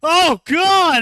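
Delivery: high, loud hammed-up panic; mock terrified screams. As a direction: shriek it like a man who just saw horror. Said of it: "he's like".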